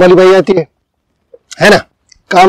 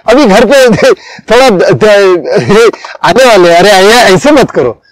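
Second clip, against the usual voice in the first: higher, half-laughing plea to the maid; the employer pleading with the maid, higher and half-laughing; flustered pleading; 4 semitones higher than usual. Retold or imitated. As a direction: beg her not to leave, swallowing anger. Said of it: "आप बोलते हैं".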